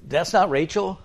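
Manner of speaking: as if waking to the wrong bride; shocked realisation. Retold or imitated.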